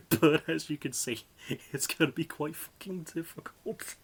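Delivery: barely holding in laughter; laughing while talking. Real, not acted. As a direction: giggle leaking through the words. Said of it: "try and stop laughing".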